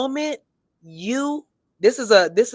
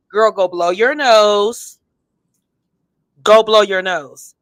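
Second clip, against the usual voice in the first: bossy advice; slower than usual. Real, not acted. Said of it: "That's your nasally voice".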